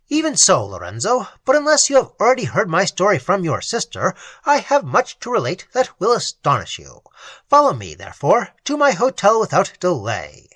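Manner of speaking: a hint of urgent friendliness; earnest nobleman. Raymond invites Lorenzo.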